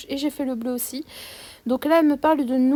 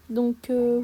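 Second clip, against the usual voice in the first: whisper. Real, not acted. Embarrassed aside to viewers.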